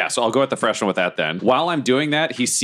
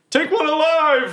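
much higher, slow yell across the battlefield; yelled order. Acted. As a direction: call it out over the fight. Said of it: "Can I yell over to Goblin Junior".

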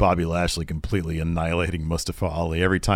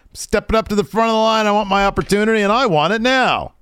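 heated demand; 12 semitones higher, 4 dB louder than usual. Retold or imitated. Retold demanding promo.

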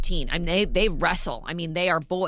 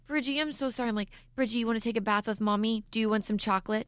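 guilty coaxing; faster than usual. Retold or imitated. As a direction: coax a hurt little one with treats. Mother re-enacts coaxing her hurt son.

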